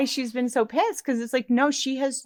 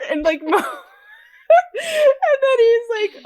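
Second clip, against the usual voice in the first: very high squeal through real laughter; breaking up mid-sentence, voice squeaking; laughing while talking; 6 dB louder, much slower than usual. Real, not acted. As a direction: struggle to talk while cracking up. Helpless laughter while retelling.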